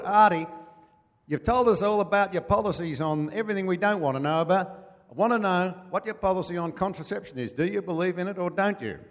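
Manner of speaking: loud, high demanding yell; heckler shouting. Retold or imitated. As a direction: shout him down from the back.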